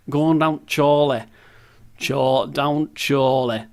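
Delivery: put-on Chorley accent; local Chorley accent. Shown as a demonstration. Player trying out local speech for viewers, mock Chorley accent. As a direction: try out the town's accent on its name. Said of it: "that's the accent, isn't it?".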